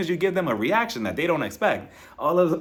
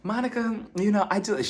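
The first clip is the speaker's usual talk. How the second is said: condescending tone; 6 semitones higher than usual. Retold or imitated. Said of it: "that condescending tone".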